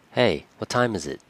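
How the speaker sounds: brusque, pushy question to a friend; a bit aggressive. Shown as a demonstration. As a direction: ask it sharply, a touch impatient. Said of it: "It sounded a little aggressive".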